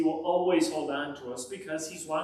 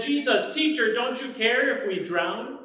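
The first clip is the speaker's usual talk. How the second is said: frightened plea; 6 semitones higher, 4 dB louder than usual. Acted. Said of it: "they shook Jesus awake and said".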